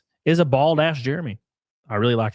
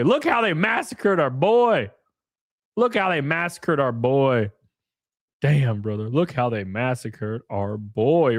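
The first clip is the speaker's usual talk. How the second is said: mock mourning. Quoting a film line mournfully.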